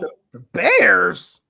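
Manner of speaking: slow, loud soldier voice; crisp loud soldier report, drawn out; Soldier Boy voice. Acted. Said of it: "Yeah, my Soldier Boy voice".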